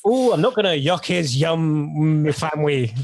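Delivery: failed attempt at a Welsh accent, drawn-out Ooh; a clumsy, half-hearted Welsh accent try; bad Welsh accent. Shown as a demonstration. Co-host asked for a Welsh accent, he tries badly in a Welsh accent. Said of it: "if you'd said that in a Welsh accent".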